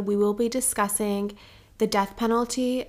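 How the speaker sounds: ordinary delivery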